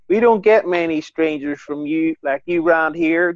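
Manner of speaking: slow, hammed-up Derry local; suspicious Derry local, exaggerated accent; mock Derry accent. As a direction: drawl it out in a put-on Derry accent. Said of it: "That was, that was Derry".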